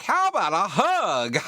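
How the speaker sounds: high, loud, drawn-out mock come-on; creepy come-on. Game character propositioning Estelle, hammed-up creepy come-on. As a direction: play an over-eager creep, slow and loud.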